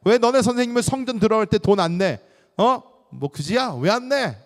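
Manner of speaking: loud, high, taunting interrogation; badgering challenge. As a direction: act out someone picking a fight. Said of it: "자꾸 따지니까".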